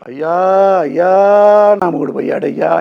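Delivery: imitating a widow's loud, high wail; a husband mimicking the wailing he doesn't want at his funeral; mock wailing widow. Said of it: "ఏడుతూ నువ్వు ఏడవద్దు".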